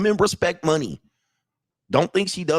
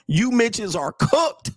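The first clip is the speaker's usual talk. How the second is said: slow mocking verdict; 7 semitones higher, slower than usual. Real, not acted. Mocking viewers, slow drawn out.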